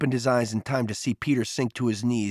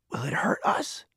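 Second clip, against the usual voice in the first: hushed, airy whisper of a question; 4 semitones higher, 3 dB quieter than usual. A narrator's reading. Boy asks his friend whether the bear is dangerous, whispering. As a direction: whisper it timidly, rising at the end. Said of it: "he whispered".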